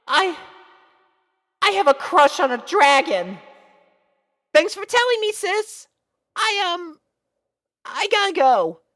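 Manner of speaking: put-on high, loud, nervous young girl voice; flustered little filly. Little sister confessing her crush to big sister, high and flustered.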